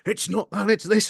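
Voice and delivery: high, preachy correction; lightly mocking the pedantic commenters. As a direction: mimic a know-it-all commenter. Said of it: "in the comments of that video".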